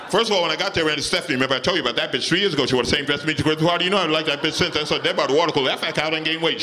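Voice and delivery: rushed rambling rant, pitch climbing; ranting wife. Retold or imitated. Wife rants about her day.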